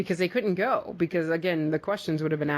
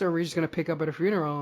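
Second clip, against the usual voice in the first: fast, curious musing; quick wondering question; much faster than usual. Retold or imitated. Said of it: "we were like".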